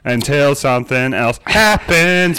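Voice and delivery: echoing room sound; echoey garage. Real, not acted. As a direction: reverberant garage recording. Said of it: "There's a sweet echo in this garage".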